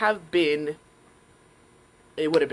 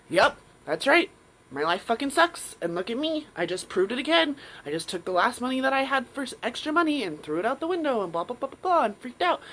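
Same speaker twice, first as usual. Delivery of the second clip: self-pitying; 6 semitones higher than usual. Retold or imitated. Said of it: "just like".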